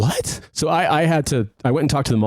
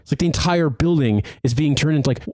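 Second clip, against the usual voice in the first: imagined rant; 5 semitones higher, slower than usual. Retold or imitated. Venting what he really meant to management.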